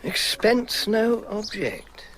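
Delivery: slow, savoured echo; musing repetition. Acted. Paul mulls the telegram's offer, slow musing. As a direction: draw out each word, weighing the offer. Muses on the telegram's tempting phrase.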